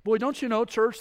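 normal talking voice

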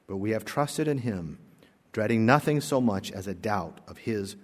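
put-on measured, gentle reading of an old story. A narrator's reading. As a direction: read it like a cherished testimony. Pastor reads a story aloud.

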